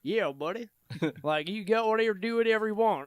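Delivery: put-on a lightly done, failed Chinese accent; attempted Chinese accent. Mocking the manager in a botched Chinese accent. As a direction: try a Chinese accent and miss it. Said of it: "I'm trying to do Chinese".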